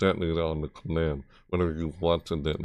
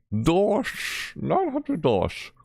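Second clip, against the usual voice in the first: playful; 12 semitones higher, much slower than usual. Pretend. Playful reaction to price.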